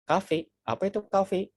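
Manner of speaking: a Japanese listener puzzled by cafe, slow and high. Retold or imitated. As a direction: mimic someone who doesn't get the word. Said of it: "bagi orang Jepang itu nggak tahu".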